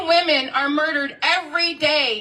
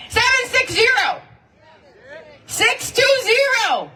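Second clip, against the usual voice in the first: higher and slow, each digit spaced out; slow, clear dictation; 6 semitones higher than usual. Shown as a demonstration. Organizer to rally crowd, dictating a phone number slowly. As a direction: read the number out slowly so everyone can note it. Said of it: "Put that in your notes".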